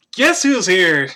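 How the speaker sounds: loud, excited squirrel announcement; squirrel character. Acted. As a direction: call it out loudly as the squirrel. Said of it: "and he's like".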